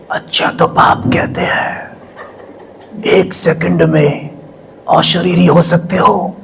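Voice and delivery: a hint of a slow, hushed divine voice. Narrator imitates God's voice speaking through Dadi, slow and hushed. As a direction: quote the heavenly voice slowly and softly, in awe. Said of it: "इतनी powerful आवाज़".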